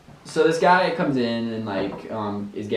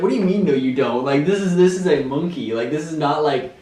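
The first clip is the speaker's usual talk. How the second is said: mock disbelief, raised pitch and volume; retold incredulous protest; 3 semitones higher, 4 dB louder than usual. Storyteller replaying his reaction to his manager's monkey tale, incredulous. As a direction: protest as if baffled by the answer.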